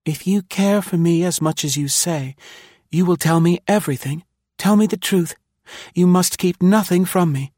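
high-pitched, decisive woman's voice; determined. A narrator's reading. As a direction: press him firmly for the truth, pitched high. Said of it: "she spoke with determination".

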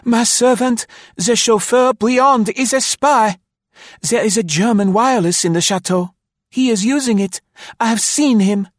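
high, loud, urgent accusation; gasping alarm. Acted. Marie denounces her chauffeur to the staff, gasping. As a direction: blurt it out in a high panicked voice. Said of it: "she gasped".

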